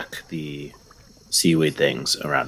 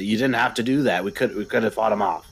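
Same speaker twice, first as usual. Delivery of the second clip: fast, higher-pitched protest; acted scream; 5 semitones higher, much faster than usual. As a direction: protest in character, words rushing out. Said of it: "I scream at him".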